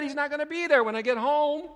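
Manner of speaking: high, fast, panicked rush; frantic wife. Retold or imitated. Preacher voicing the anxious wife, fast and high. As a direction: imitate her spilling fears fast and high. Frantic woman voiced in sermon.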